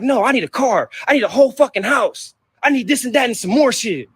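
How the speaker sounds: a light mock of a greedy mother. Son imitating his mother's greedy demands, mocking. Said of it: "She like".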